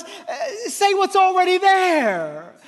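a hint of a patient God, slow; lightly voiced God, unhurried and kind; gently voicing God's easy answer. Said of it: "God says".

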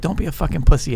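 a hint of a tough guy, how it sounds in your head; imagined tough self-talk; tough inner voice. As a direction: growl it like a tough gangster coaching himself. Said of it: "tough gangster guy talking to yourself".

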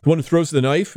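mock-excited movie-buff parent, rushing the knife part; a hint of a dad nerding out to his bored kid.

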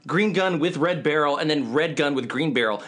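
worked-up rant; ranting with rising pitch; mock outrage. Real, not acted. Ranting about Borderlands.

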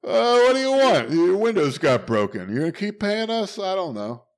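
high, loud bumbling mobster; smiling menacing loan shark. Retold or imitated. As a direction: shout it like a clueless thug. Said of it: "And your mob's like".

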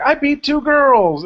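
high, slow, deflated little voice; glum Spud reply. Retold or imitated. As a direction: mumble it like a let-down underdog. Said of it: "And he's like".

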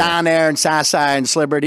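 Pittsburgh place names, run together; Pittsburgh accent. Shown as a demonstration. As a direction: demonstrate Yinzer pronunciation of local names. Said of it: "We have this accent in Pittsburgh".

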